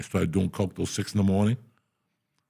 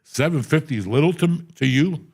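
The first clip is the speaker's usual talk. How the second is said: mock angry demand; 4 semitones higher, 4 dB louder than usual. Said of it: "I'm like".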